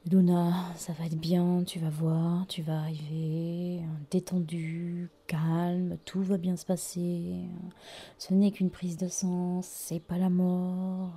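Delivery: soft, hushed self-reassurance; calm yourself down quietly; murmured pep talk to herself; soothing self-talk. Retold or imitated. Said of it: "Je me déstressais à fond".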